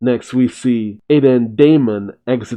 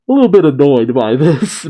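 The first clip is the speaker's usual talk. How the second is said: laughing; 3 semitones higher, 5 dB louder than usual. Real, not acted. Narrator laughs at Mitsuki.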